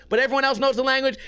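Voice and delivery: usual speaking voice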